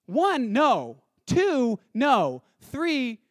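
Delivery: high, loud, incredulous outburst; exasperated protest. Acted. Preacher as Abraham objecting to God's command, exasperated. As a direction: protest point by point, voice leaping up.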